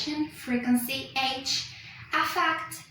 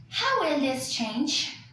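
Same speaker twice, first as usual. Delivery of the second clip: "How will this change?" read slowly, falling to the end; slow falling wh-question. Shown as a demonstration. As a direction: let the question fall, not rise. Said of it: "this sentence is read using a falling tone".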